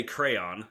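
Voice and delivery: "crayon" said slowly as CRAY-on; two clear syllables in "crayon", ending in "on"; own pronunciation of crayon. Shown as a demonstration. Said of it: "So I say".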